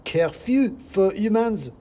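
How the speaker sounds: high, loud, slow squeaky decree; second mouse, shouting. Acted. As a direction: bellow the curfew like a tiny revolutionary. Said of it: "said another voice".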